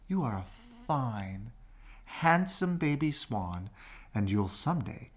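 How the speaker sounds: slow, soft, reassuring voice; tender mother swan. Acted. Mother swan cradling the duckling, slow and soft. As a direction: soothe him like a loving mother. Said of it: "said the beautiful snow-white swan".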